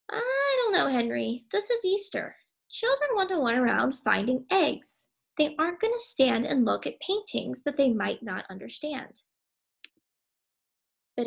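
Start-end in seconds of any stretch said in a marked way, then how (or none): 0.1-9.2 anxious objection. Acted. Henrietta tells Henry children want egg hunts, worried. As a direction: plead with him, worried. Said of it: "Henrietta responds".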